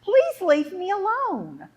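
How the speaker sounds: high, loud, drawn-out wail; mock-crying plea, stretched out slowly; tearful plea. Crying girl begging mother to stop, wailing plea. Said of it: "started crying and crying and crying".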